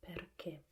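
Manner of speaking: perché ending in a closed 'ay'-like e, stressed; perché with tight, accented final e. Shown as a demonstration. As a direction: stress the last syllable of perché, keeping its e closed. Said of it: "with a closed E at the end".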